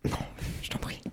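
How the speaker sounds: faint, cracking voice; voice giving out. Real, not acted. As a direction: voice fading to a whisper. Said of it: "ma voix s'en va".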